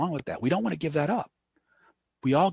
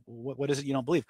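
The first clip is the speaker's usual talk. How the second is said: calm probe; 6 dB quieter, faster than usual. Shown as a demonstration. Calmly probing the irate man.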